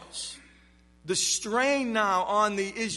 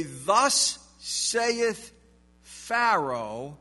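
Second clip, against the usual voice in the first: a lightly voiced haughty Pharaoh, a bit louder; a hint of a pompous Pharaoh proclaiming; Pharaoh's voice; 4 dB louder, much slower than usual. Shown as a demonstration. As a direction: announce it like a proud king. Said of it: "We have a different voice".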